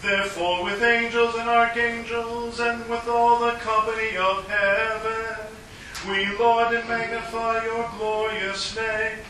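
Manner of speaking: liturgical intoning. Acted. Priest intones eucharistic preface.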